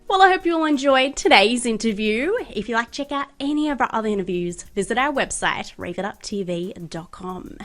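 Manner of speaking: measured scripted sign-off to listeners; presenter wrapping up the episode; podcast outro. Real, not acted. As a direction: read out the show's closing plugs, pausing between phrases.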